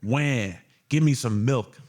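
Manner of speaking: put-on big baby whining for milk; whiny man-child. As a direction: whine like an overgrown baby. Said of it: "You wanna hear my impression of a big baby?".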